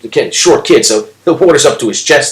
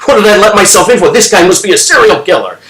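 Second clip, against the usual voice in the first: high-pitched acted alarm; higher, alarmed inner voice; starting to panic; 5 semitones higher than usual. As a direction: play the kid's rising panic. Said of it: "he's starting to panic".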